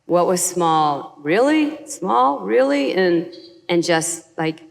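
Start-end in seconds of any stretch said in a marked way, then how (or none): 1.2-2.9 high, disbelieving really; mock outrage at a tiny portion; incredulous.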